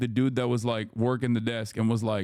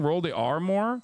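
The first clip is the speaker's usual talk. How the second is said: high-pitched defensive protest; 9 semitones higher than usual. Real, not acted. Vlogger mock-indignant at a chat correcting his birria, high squeal. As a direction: squeal back an indignant comeback.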